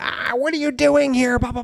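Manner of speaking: high, mocking put-on screech.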